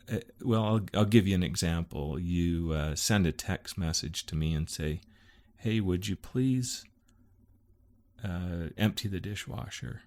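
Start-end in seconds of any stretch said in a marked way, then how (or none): 5.6-10.0 polite request. Shown as a demonstration. Wife texting husband a chore, politely. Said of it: "that's the way you say it".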